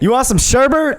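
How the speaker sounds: high silly puppet voice; mock Ernie meme voice. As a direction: squeak it like a Muppet.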